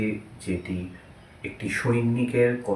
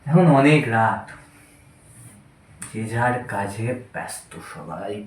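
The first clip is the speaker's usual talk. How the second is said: put-on drunk playwright. Drunk man taunting a naked king, then muttering to himself, lightly drunk. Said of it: "নাট্যকারের কথোপকথন মদ্যপ অবস্থায়".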